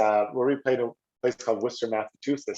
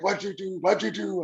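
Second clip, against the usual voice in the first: high-pitched disbelieving repeat; mock alarm in a high voice; alarmed buddy; 9 semitones higher than usual. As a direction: imitate a dismayed friend, voice pitched up. Buddy's alarmed reaction retold.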